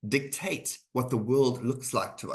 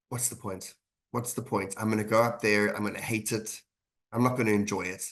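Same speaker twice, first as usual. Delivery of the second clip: dejected lull; 2 semitones lower than usual. Retold or imitated. Speaker voicing own gloomy thoughts before an event, deflated murmur. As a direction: let the voice sink into a hopeless lull. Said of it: "a kind of a din or a lull of".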